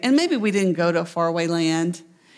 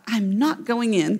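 sulky refusal. Acted. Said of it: "Can you hear him right now?".

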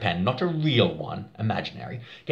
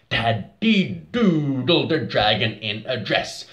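fuller voice than the whisper; louder; slower than usual. Shown as a demonstration. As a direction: say it louder now.

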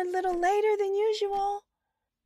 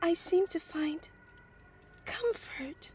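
much softer, hesitant voice; shy and soft; 3 semitones lower, 5 dB quieter than usual. Acted. Sharon answers the stranger shyly, much softer. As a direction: answer timidly, near tears.

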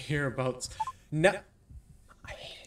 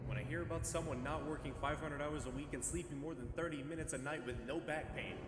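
ranting through heavy reverb; canyon echo; 10 dB quieter than usual. Shown as a demonstration. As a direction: echo voice mod reading. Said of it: "We're reading it in the Echo voice".

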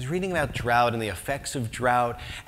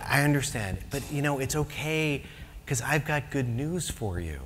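gentle; 6 dB quieter than usual. Retold or imitated. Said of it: "in his very gentle way".

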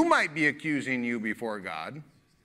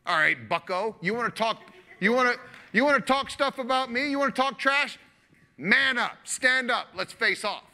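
higher, louder taunting challenge; challenging God; 8 semitones higher, 3 dB louder than usual. Acted. God daring a trash-talking Job to face off, taunting. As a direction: square up and dare him to face off.

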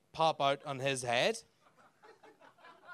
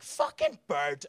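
slow grumble; 4 semitones lower, much slower than usual. Retold or imitated. Grumpy morning thought.

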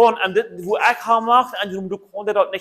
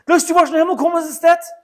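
mocking question; 10 semitones higher, 4 dB louder, faster than usual. Acted mocking challenge question.

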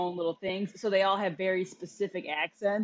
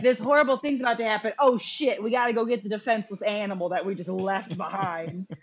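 mock panic; 4 dB louder than usual. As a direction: imitate flustered cartoon heroes in a rush. Mock quote of panicking cartoon characters.

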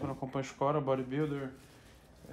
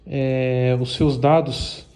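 loud announcement; 6 dB louder than usual. Real, not acted. Announcement to viewers.

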